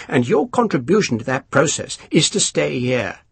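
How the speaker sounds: lightly voiced self-satisfied officer; a hint of a smug English colonel; pompous colonel. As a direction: savour each word, pleased with yourself. Colonel lecturing.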